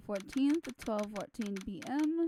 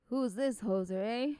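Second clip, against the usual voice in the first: light put-on Canadian accent. Player gives game character a playful Canadian accent. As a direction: toss it off in mock Canadian. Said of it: "this man is now Canadian".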